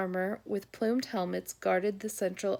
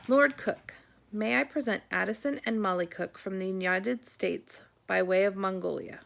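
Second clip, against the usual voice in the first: formal announcement. Acted. Butler presenting the children to Lord Cook, formal and raised. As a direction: announce them grandly to the master.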